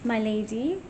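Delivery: slow, loud call into an empty room; calling out to a spirit. Real, not acted. A ghost hunter calls to Lady Anne, slow and loud. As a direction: project the voice to reach the ghost.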